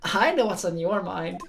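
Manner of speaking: lightly voiced prosecutor and sly old nun; game characters voiced. Prosecutor grills the nun, who turns sly and teasing. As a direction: read the testimony scene in character.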